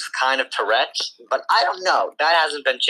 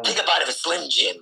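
Macho Man promo; 3 semitones higher than usual. Acted. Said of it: "Macho Man".

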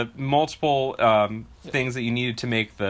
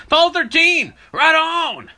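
high, loud whoop of approval; a hammed-up roadside fan calling out to the astronauts; excited cheer; 14 semitones higher, 6 dB louder than usual. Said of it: "the line that the guy in the car says".

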